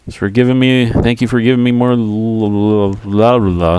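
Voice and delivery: tongue tripping over words; stumbling, numb tongue; tongue not working. Real, not acted. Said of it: "My tongue is not working".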